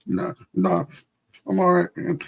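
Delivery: high, strained insistence that he's fine; boy trying not to cry in front of a girl, high and forced; brave kid. Retold or imitated.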